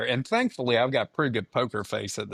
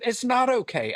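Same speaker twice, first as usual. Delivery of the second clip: higher-pitched, insistent imitation of the wife; mock upset wife; 12 semitones higher than usual. Husband voices his wife objecting to his calm, mock indignant.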